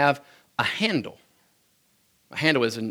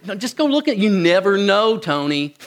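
coaxing mom; 5 semitones higher than usual. Retold or imitated.

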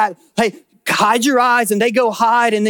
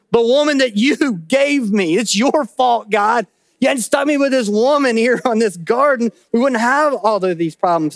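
indignant blaming Adam; 4 semitones higher than usual. Retold or imitated. Preacher voicing Adam blaming God, raised indignant voice. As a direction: push the blame off yourself, half-shouting.

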